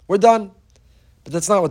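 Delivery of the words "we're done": mock child, louder. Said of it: "the child would say".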